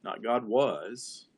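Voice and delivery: "was" set slowly against "is"; slow, pointed "Not God was"; slow contrast on "God was"; stressed contrast. Shown as a demonstration. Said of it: "go to the next word".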